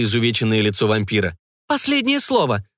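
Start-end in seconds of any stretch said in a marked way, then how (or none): 1.7-2.6 higher, stern judge demanding last words; a hint of a judge addressing the condemned; judge's tone. A narrator's reading. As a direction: pronounce it like a verdict. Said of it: "тоном судьи вопросила охотница".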